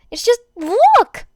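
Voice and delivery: loud, high and slow, bursting with glee; excited laughing. Acted. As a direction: shove the paper at him, cracking up. Uraraka laughing, showing paper.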